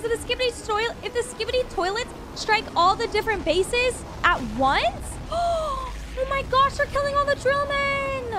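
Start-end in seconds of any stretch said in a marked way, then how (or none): 6.3-8.3 real upset pushing toward tears; close to tears. Real, not acted. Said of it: "I'm gonna cry".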